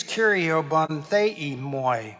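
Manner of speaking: very slow, careful Greek "Kyrio bonthei moi"; teaching the Greek plea "Kyrio bonthei moi" slowly; Greek pronunciation. Shown as a demonstration. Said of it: "In the Greek is".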